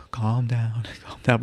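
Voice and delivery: soft, hushed mock soothing with a laugh; teasing soft-spoken calm-down. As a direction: imitate someone calming a room, softly. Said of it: "doing this whole, like, the calming".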